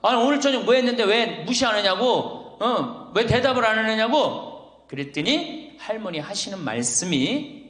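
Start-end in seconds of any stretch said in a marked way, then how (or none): 0.0-4.9 higher-pitched, mildly raised complaint; mock angry yell. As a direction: imitate a fed-up husband yelling. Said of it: "소리를 지르는 거예요".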